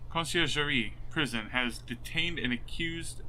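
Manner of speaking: conciergerie said slowly as kon-see-er-zheh-ree; careful pronunciation. Real, not acted. Streamer reading the game text, careful on the French word. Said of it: "I'm saying shit wrong".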